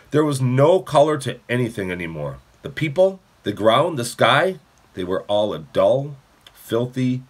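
expressive, measured audiobook reading; story narration. A narrator's reading. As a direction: read the chapter aloud to children. Reads a novel aloud.

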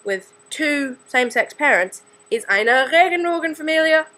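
eine Regenbogenfamilie with German vowels, stressed; German word. Shown as a demonstration. Teen proudly saying the German word. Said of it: "the word for a family".

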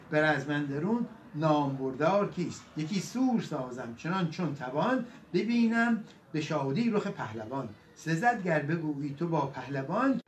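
measured Persian epic recital; epic verse recitation. A narrator's reading. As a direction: recite the couplets with rolling metre.

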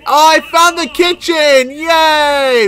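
high, gleeful exclamation; excited cheer. Real, not acted. Player to himself on finding the kitchen, excited cheer.

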